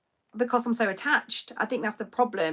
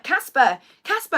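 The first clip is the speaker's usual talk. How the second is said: rising, louder calls of a name; calling for lost child; 3 semitones higher, 6 dB louder than usual. Retold or imitated. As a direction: call out in panic. Searching for lost son.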